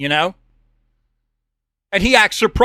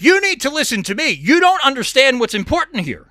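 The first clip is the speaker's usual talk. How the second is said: retold yelling; 5 semitones higher than usual. Caller telling the host to listen, mock yelling. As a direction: imitate an angry caller's yell without full volume. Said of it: "Jason yells at me over the phone".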